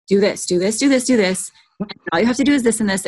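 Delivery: eager, pushy rush of instructions; excited. Retold or imitated. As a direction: imitate yourself excitedly urging someone on, building as you go. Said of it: "I'd get all excited".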